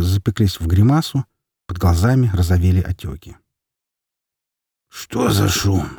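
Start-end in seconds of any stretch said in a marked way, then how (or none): 4.9-5.9 lightly hoarse hungover voice; father, hungover, asking what the noise is. Acted. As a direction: rasp it out, just woken. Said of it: "хриплым голосом спросил он".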